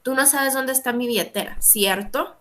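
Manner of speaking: "¿cierto?" lifted at the end; rising confirmation question. Shown as a demonstration. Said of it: "una pregunta con cierta, eh, énfasis imperativo".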